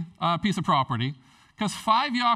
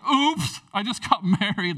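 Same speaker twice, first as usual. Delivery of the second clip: mock excuse; 3 semitones higher, 5 dB louder than usual. Mocking the excuse-maker.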